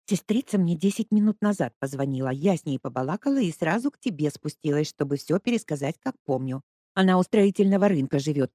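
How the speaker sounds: lightly voiced old neighbour, slowing for the juicy part; a hint of a chatty babushka spreading news; old woman telling the news in confidence; gossiping old woman.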